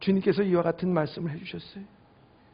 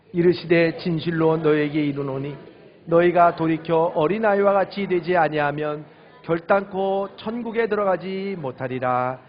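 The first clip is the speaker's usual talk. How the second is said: scripture reading; 4 dB louder than usual. Acted. Reads scripture.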